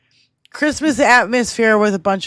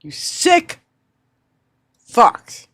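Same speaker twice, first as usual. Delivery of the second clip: real disgusted outburst; much slower than usual. Real, not acted. Host reacting to report, furious outburst.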